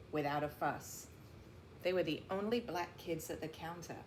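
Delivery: steady storybook narration; read-aloud voice for young listeners; reading to children. A narrator's reading. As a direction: tell the story to a class of kids. Reads picture book to class.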